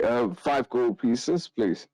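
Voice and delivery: lightly voiced priest, slow; a hint of a priest voice, taking time; priest character. Priest asks party for five gold pieces, light priest voice.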